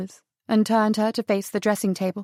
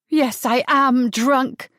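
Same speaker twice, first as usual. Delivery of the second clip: hissed; 3 semitones higher, 3 dB louder, much slower than usual. Acted. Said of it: "she hissed".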